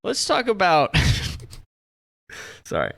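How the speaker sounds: giggling stoned rambling; stoner. Real, not acted. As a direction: lose the thread, giggling. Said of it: "I'm so high right now".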